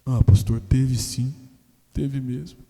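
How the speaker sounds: loud, blurted confession; husband confessing. Retold or imitated. Husband confessing to the pastor, loud and blurted. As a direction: burst out the admission. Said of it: "husband confesses".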